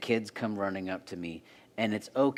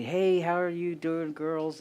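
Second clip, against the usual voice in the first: cheerful greeting; 6 semitones higher than usual. Retold or imitated. Pastor greeting his daughters.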